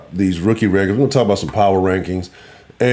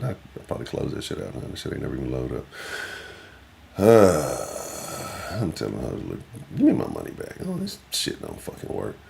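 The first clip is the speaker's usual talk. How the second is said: annoyed mutter; 5 semitones lower, 8 dB quieter than usual. Real, not acted. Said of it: "got me mad".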